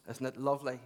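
lightly put-on Lurgan accent. Friend answers the preacher's phone call, imitated Lurgan accent. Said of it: "he talks like this".

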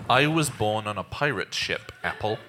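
tongue held. Acted. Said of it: "pinched in between his fingers".

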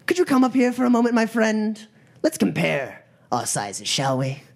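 gang leader's mock-polite invitation. Gang leader inviting the troll on stage, mock-polite challenge. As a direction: courteously call out the heckler.

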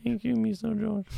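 high put-on stereotypical Hispanic accent; mock Hispanic accent. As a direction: play a flustered maid with a thick Hispanic accent. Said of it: "Stereotypical Hispanic accent".

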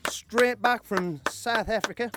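slow, lightly put-on Australian accent; mock Australian accent. Radio host to co-host, hamming up a slow Australian accent. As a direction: drawl South Africa in a jokey Australian accent. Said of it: "is that my Australian accent?".

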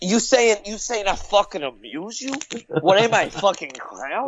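a touch of mock-offended gangster; Joe Pesci. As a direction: challenge them like a touchy mobster. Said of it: "you're doing a Pesci".

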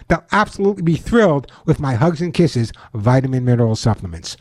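upbeat pitchman ad read; chipper 1950s ad. Acted. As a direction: sell it like an old radio spot. Ad read continues.

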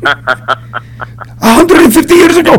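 lightly voiced mechanic starting a long story; mock lecturing mechanic. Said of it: "Dude, you're the first Armenian".

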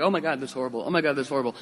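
soft, deflated gasp of dismay; just reacting. Shown as a demonstration. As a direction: sigh it out helplessly, only reacting. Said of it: "not just reacting".

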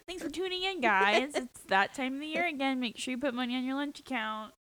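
chirpy school announcements voice; school newscaster. Pretend. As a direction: read it like morning announcements. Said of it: "You sound like a school newscaster".

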